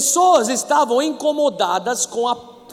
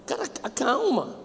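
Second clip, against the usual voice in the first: soothing hush; 4 dB quieter, slower than usual. Retold or imitated. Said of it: "Alguém já escutou isso?".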